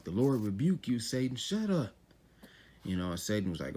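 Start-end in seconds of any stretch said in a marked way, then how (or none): 0.0-1.4 emphatic rebuke. Retold or imitated. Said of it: "he put it with an exclamation mark". 1.4-1.9 sharp, much higher command to shut up; God silencing Satan with a sharp high shut up; exclamation-mark rebuke. Retold or imitated. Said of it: "he put it with an exclamation mark".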